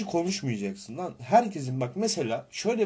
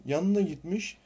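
lively storytelling; 3 semitones higher than usual. Shown as a demonstration. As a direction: tell it with flair and energy. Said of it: "iki farklı tarzda anlatacağım".

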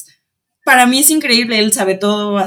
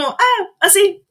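drawn out, much higher and slow; slow mock dad; 10 semitones higher, much slower than usual. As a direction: stretch it lazily. Imita al papá relajado. (papá imitado, lento y agudo)

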